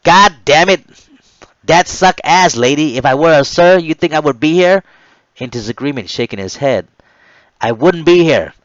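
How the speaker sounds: loud, high furious shouting; harsh angry rebuke. Retold or imitated. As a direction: tear into the recruits for calling him sir. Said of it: "he harshly reminded and demanded".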